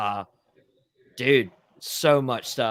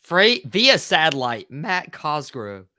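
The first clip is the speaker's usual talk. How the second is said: announcer intro; 3 semitones higher, 5 dB louder, slower than usual. Shown as a demonstration. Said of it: "hype intro call".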